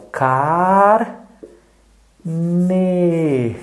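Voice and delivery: car- pause ne, syllables pulled apart; split into syllables. Shown as a demonstration. Teacher splitting a word for a child into syllables. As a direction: break "carne" into car and ne for a child. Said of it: "coloquei um tracinho no meio".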